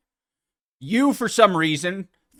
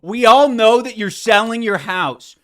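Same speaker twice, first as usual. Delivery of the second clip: higher, louder mocking parrot of the line; mocking echo; 5 semitones higher, 7 dB louder than usual. Host parroting the podcaster's line, mocking. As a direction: throw their words back at them.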